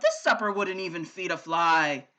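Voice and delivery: low growling giant voice. A narrator's reading. The giant growls at Sophie about her porridge. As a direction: grumble with scorn. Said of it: "The giant growled".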